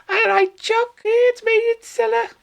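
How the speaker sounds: very high falsetto greeting; hammed-up high-pitched hello; jokey character voice. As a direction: squeal it in a silly put-on falsetto.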